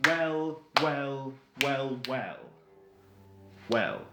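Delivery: lightly voiced gloating villain, drawn out; theatrical captor. Captor confronts his prisoner about the finished book, mildly theatrical villain. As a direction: toy slowly with your captive, lightly villainous.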